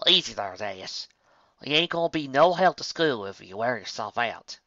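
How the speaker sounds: calm down a friend; lightly southern Applejack. Acted.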